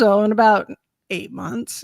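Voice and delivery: lightly voiced offhand answer; mildly teasing matter-of-factness; casual doctor. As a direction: answer as if it's no big deal.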